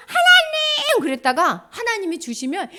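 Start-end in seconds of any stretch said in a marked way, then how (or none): 0.1-1.0 high-pitched, louder mock cry; urgent pleading call. Someone begging God for what they need, acted urgent cry. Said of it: "하나님한테 구할 때는".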